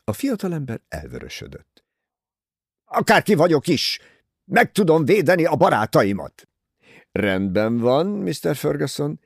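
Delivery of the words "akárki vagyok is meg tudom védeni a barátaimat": higher and louder, proud defiance; defiant shout. A narrator's reading. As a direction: fling it back at the detective. Ferguson defiant after blushing.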